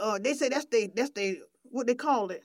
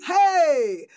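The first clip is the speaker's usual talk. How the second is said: hyped radio host; 5 semitones higher, 4 dB louder than usual. Acted. Host welcomes listeners to the gospel show, hyped. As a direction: rev up the listeners with elongated calls.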